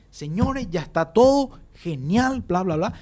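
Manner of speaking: rally the room as the president; president addressing union men. Retold or imitated. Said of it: "aparte gritaba".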